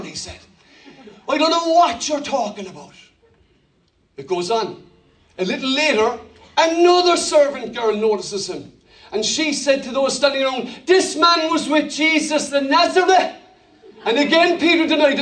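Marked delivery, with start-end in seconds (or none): 1.3-2.9 lightly acted Cork denial; Cork accent. Peter denying it in front of everyone, light Cork accent. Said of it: "let's say Peter's from Cork". 10.9-13.3 raised, lightly acted Dublin accusation; Dublin accent. Servant girl telling those standing around, Dublin accent. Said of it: "we say they're from Dublin".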